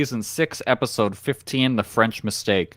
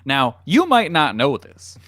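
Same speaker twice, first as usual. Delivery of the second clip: clickbait video narrator; 2 semitones higher than usual. Pretend. Continues YouTuber parody.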